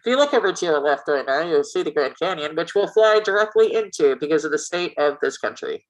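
lightly voiced airline captain announcement; a hint of a calm pilot on the intercom. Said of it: "I have a great pilot voice".

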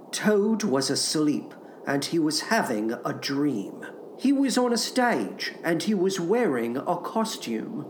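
soft, measured storybook reading; quiet storyteller; story narration. A narrator's reading. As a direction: read a bedtime tale gently. Reads a children's story aloud.

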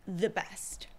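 breathy whisper of emphasis. Real, not acted. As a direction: drop to a whisper on it.

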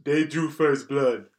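slow, lightly voiced action hero; awful Rambo impression. Shown as a demonstration. Hosts guessing his movie quote, slow mock action-hero voice. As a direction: say it slowly, a half-hearted tough guy. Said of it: "I do an awful impression".

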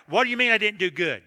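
loud, defensive comeback, acted out; indignant retort. Preacher firing back at his wife, loud mock indignation. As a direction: fire it back, affronted. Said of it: "So I fired back".

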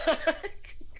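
short unvoiced giggle; quick high laugh; high breathy laugh. Real, not acted. Laugh mid-sentence.

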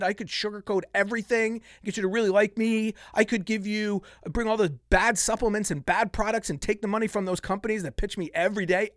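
ordinary talk

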